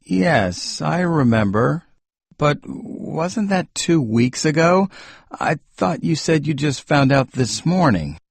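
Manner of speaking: a husband questioning his wife's timing; puzzled. Acted. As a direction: gently catch her in the lie. Husband catches a contradiction.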